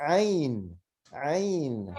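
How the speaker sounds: Ain said from the throat; name the letter Ain; Arabic letter Ain. Shown as a demonstration. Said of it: "this is called".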